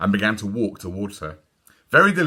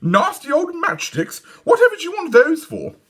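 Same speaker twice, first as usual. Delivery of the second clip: put-on high prissy little girl; prissy disgusted girl; 5 dB louder than usual. A narrator's reading. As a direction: turn her nose up at it. Dawn voiced disgusted.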